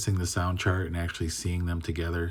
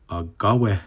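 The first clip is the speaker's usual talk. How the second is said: slow, careful Mohawk word read; teacher modeling a word slowly; 4 dB louder, slower than usual. Shown as a demonstration. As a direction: sound it out slowly for learners. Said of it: "So this first one is".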